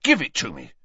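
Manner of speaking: high strangled cry; choked panic. Acted. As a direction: gasp it out while being throttled. Mundungus being choked.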